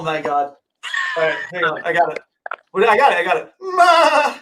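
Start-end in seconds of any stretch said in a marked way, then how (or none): 3.6-4.4 high-pitched goat bleat; drawn-out, high goat impersonation; Pumpkin. Shown as a demonstration. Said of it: "my best pumpkin impersonation".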